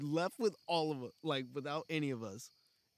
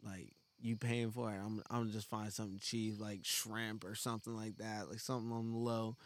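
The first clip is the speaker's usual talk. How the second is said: quoting himself; 7 semitones lower, 8 dB quieter, faster than usual. Retold or imitated. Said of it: "I was like".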